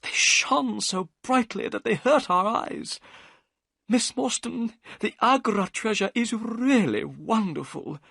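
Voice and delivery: high, eager telling of the jewels; breathless wonder at the treasure; excited. A narrator's reading. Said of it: "Thaddeus Sholto's voice became excited".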